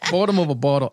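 weak Boston accent try; attempted Boston accent. Shown as a demonstration. Mocking his friend's phrase, weak Boston accent. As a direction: another half-hearted Boston accent. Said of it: "I, I can't do accents".

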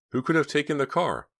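high-pitched, anxious wondering; distressed, high-voiced disbelief; panicked question. A narrator's reading. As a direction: ask it in alarm, pitched well up. Panicked thought, car seems gone.

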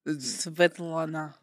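slow mock Russian accent. Starbucks worker giving a name in a rough Russian accent. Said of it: "Accent Russian".

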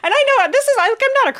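bursts into a high laugh mid-sentence; laughing through tears at herself. Real, not acted. To her co-host about crying over a book, laughing. Laughing right after saying she cried.

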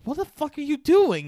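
high, loud mock outburst; mock yell. Russell Crowe yells at his grabbing partner, a high mock shout. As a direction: yell it at him in disbelief. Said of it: "Russell Crowe's like".

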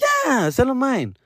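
high, drawn-out imitation of a son; Diego. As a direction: imitate your kid insisting. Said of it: "But my son, Diego, my oldest".

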